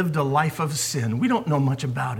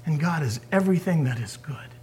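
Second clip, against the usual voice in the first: softer unvoiced whisper; 7 dB quieter, faster than usual. Real, not acted. Preacher speaking of God's goodness, whispering. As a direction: hush it reverently. Hushed reverent statement.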